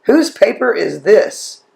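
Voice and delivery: mild mock yell of a teacher; calling out. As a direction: imitate a teacher calling a name to the class, rising on the question. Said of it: "she yelled out".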